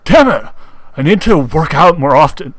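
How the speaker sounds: loud, exasperated outburst; frustrated shout. Acted. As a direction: yell it out, fed up. Panting character, reading fanfic.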